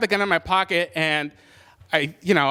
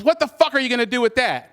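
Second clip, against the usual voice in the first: retold challenge, pitched up; scornful challenge; 7 semitones higher than usual. Mugger to the man aiming a gun, retold scornful challenge. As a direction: imitate a mugger daring him, voice higher.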